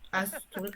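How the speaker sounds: Aston with a plain "s", no "sh"; rejected Aston pronunciation. Shown as a demonstration. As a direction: say "Aston" as "ASS-tonne". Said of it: "On va pas dire ça".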